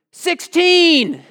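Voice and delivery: high, loud hopeful shout; new inmate calling out. Retold or imitated. The new prisoner tries a joke number on the block, high shout. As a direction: yell the number and hope for a laugh. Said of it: "so he goes".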